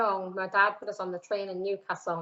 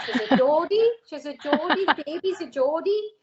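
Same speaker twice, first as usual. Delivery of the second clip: high sing-song taunt with rising ends; mock teasing; 8 semitones higher, 4 dB louder than usual. Older stars teasing the young Geordie newcomer, sing-song mock taunt. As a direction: chant it like teasing the new kid.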